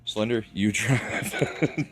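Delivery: laughing. Real, not acted. Teasing teammate.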